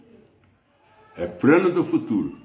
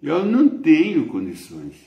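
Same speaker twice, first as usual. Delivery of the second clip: Sarah protesting; 4 semitones higher, slower than usual. Acted. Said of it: "começou a olhar nela e falou".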